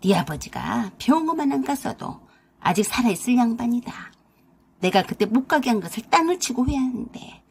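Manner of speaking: a mild, understated booming mother-in-law; mother-in-law refusing the hospital, mildly booming. Acted. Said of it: "쩌렁쩌렁 목소리로 그러셨어요".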